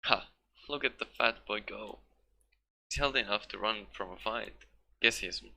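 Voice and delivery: mocking old woman. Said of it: "barked out a single laugh".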